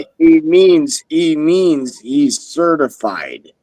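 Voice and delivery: choppy, breaking-up audio; bad connection. Real, not acted. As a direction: voice cutting in and out. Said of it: "Joe, you're breaking up bad".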